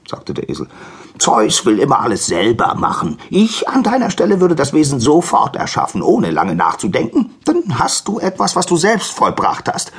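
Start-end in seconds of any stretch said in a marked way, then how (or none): 1.2-9.9 high, loud, insistent donkey; excitable donkey giving advice; pushy donkey. Acted. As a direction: egg him on in a high voice. Donkey urges Prometheus on.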